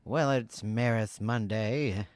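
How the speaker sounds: put-on slow, old-fashioned radio man delivery; old-timey radio announcer. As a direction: announce it like a 1940s radio host. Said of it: "That sounded like an old-timey radio man voice".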